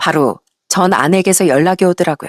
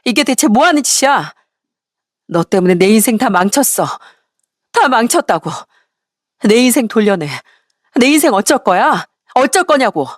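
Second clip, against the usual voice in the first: higher-pitched, restrained angry yell; angry outburst; 3 semitones higher than usual. Acted. Ex-wife blaming ex-husband for her ruined life, angry outburst. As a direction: lash out in acted indignation, voice lifting as it goes. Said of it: "화를 내며 소리를 쳤어요".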